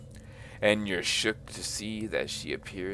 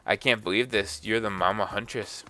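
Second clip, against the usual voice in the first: excited; 2 semitones higher, 7 dB louder than usual. Acted. Starstruck fan gushing.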